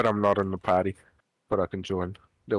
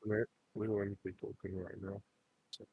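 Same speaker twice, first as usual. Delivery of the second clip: wobbly warbling call audio; 11 dB quieter than usual. Real, not acted. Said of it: "your voice is wobbly".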